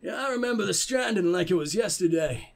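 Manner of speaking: badly attempted southern character voice; shaky attempt at a southern accent; botched southern accent. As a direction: try southern and miss, landing oddly Norse. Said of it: "make him sound a bit more southern".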